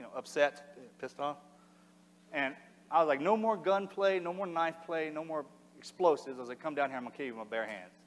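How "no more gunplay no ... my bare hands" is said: mildly angry challenge, pitched up then dropping; retold mad challenge. Wounded man daring armed pursuers to come down, mad. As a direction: retell an angry dare with some heat. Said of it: "that's how mad I was".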